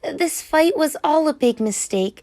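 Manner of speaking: earnest Rainbow Fish. A narrator's reading. Rainbow Fish speaks to whale.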